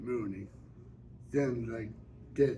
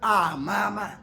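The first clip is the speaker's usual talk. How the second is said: higher, louder, coaxing plea; wheedling Grady; 4 semitones higher, 5 dB louder than usual. Acted. Grady coaxes Suge not to be mad, wheedling and higher. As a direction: sweet-talk her out of being cross. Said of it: "He say".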